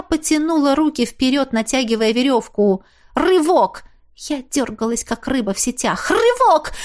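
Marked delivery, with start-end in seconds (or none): 3.1-3.8 straining. A narrator's reading. Straining against the rope. 6.1-6.7 high, loud straining cry; straining effort. A narrator's reading. Harder straining pull.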